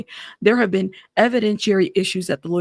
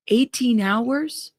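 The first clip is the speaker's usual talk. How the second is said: stunned disbelief; 3 semitones higher, much slower than usual. Real, not acted. Repeating the witness's shocking detail.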